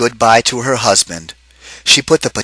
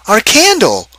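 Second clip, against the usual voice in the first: high character voice; 11 semitones higher, 4 dB louder than usual. Acted. Husband asks the room about the pot, in a high character voice. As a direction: lift into a high, bright-toned figure voice. Same character finishing question.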